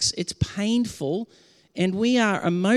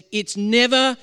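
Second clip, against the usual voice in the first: louder, higher preached declaration, slowing at the end; prophetic declaration; 4 semitones higher, 4 dB louder, slower than usual. Shown as a demonstration. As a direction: proclaim it like a prophet, easing down on the last words. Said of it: "a prophetic message that says".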